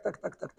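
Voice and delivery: soft voiceless tac tac tac; whispered knock. Retold or imitated. Rabbi imitating the Baal Shem Tov's knock, soft and voiceless. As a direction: breathe the knock out like a tiny tapping.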